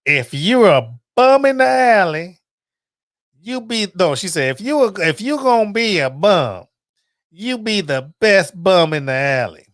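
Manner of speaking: lightly voiced grandmother giving loving advice; a hint of a firm, fond grandma; grandmother's voice. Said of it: "I'm gonna do the voice".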